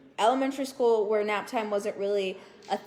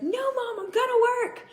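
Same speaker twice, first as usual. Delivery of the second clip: put-on higher, laughing kid's protest; whiny kid protest; 13 semitones higher, 4 dB louder than usual. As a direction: protest like a stubborn child. Speaker voices her younger self.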